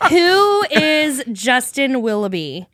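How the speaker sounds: drawn-out, hammed-up big question; grand introduction. Host opening the guest's origin story, grandly dramatic. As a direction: pose it slowly, like a grand reveal.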